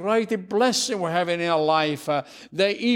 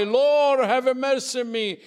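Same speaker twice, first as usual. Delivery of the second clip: crying out; 5 semitones higher than usual. Acted. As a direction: call out to the Lord, begging. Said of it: "A man is cry".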